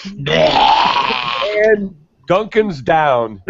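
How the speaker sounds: slow, drawn-out dramatic call; mock announcement. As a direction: announce it like a war report. Announcing the friend's freeze.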